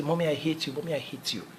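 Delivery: preacher voicing a furious child; angry child shouting. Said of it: "the child started shouting".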